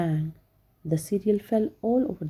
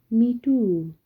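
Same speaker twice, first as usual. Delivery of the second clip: moaning; 3 semitones higher, 4 dB louder than usual. Acted. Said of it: "moaned Hannah".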